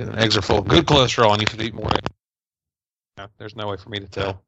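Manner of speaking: crackling bad connection; crackly mic. Real, not acted. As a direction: voice breaking up over a loose mic. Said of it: "is he that crackly to you too".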